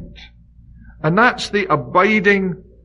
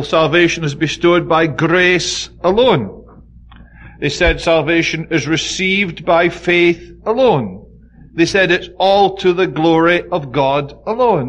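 alone drawn out and leaned on at each line's end; slow, weighty, landing hard on alone; stress on alone. Shown as a demonstration. Preacher hammers the Reformers' word alone to his congregation, slow stressed alone. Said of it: "they put a lot of emphasis on the little word alone".

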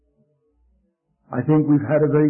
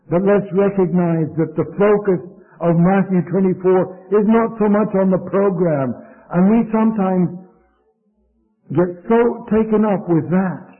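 insistent sermon delivery, voice raised a little; emphatic preaching; 5 semitones higher, 4 dB louder than usual. Real, not acted. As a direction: build toward a ringing exhortation. Preaches with force.

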